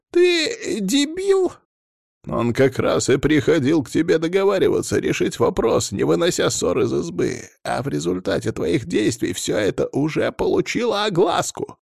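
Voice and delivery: high, exasperated scolding; incredulous, irate dressing-down; angry berating. A narrator's reading. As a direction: berate a bungling subordinate. Clan head berates the young prince.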